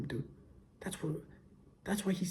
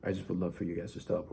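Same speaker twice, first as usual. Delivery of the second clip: soft, quiet, apologetic request; super nice; 4 dB quieter than usual. Retold or imitated. Asking people nicely to stop, soft and apologetic. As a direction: say it gently and kindly. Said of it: "just be super nice about it".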